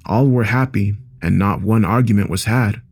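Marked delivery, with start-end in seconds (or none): none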